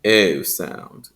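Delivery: put-on "O" as an old RP diphthong; received-pronunciation O. Shown as a demonstration. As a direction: begin "O" further forward, like old RP. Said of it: "in received pronunciation".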